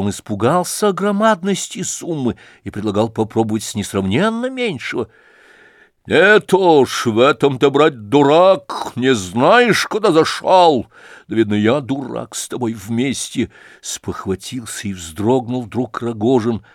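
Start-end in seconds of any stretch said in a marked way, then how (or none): 6.1-13.5 loud, high, stretched rebuke; irritated scolding. A narrator's reading. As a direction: scold the fool, then ease off at the end. Рогожин бранит Лебедева за совет. (раздражённо бранит, громко и высоко)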